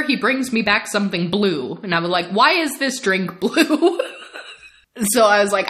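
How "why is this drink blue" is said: high, slow mock-horrified question; comic dismay, half laughing. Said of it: "to my horror".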